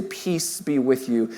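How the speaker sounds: low, soft, slow blessing; gentle God. Acted. God to people in their biggest tantrums, softly soothing. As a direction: ease down into quiet reassurance.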